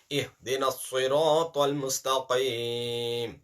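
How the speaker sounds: slow, heavy recitation. Shown as a demonstration. Teacher repeating the verse for the class. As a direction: recite slowly, heavy letters thick. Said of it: "Ta is a mustaliya letter".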